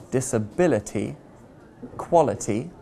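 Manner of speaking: disability stressed on bi, quality on qua, before ity; stress before ending. Shown as a demonstration. Teacher showing the ity ending, stress before it. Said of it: "we generally stress the syllable before the ending".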